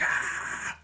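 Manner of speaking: breath-only imitated rock yell; mock rock scream. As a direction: fake a rocker's scream without full voice.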